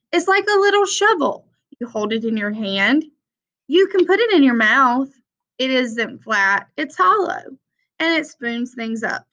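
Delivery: picture-book read-aloud voice; reading to children. Acted. Teacher reading The Important Book to her class, storytime read-aloud. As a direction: read it like storytime for little kids, refrains lifted.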